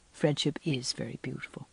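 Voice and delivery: low, soft and tender; smiling, gentle. A narrator's reading. Minister's wife gently agrees with girl about friendship, smiling. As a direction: say it softly through a smile. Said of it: "smiled Missus Allen".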